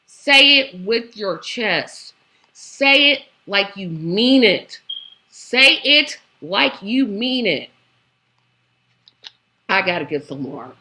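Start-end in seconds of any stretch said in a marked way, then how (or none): 0.1-7.7 slow, deliberate, spaced-out words; emphatic urging. Real, not acted. Commentator telling a politician to say it with her chest, emphatic. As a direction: drive each phrase home slowly.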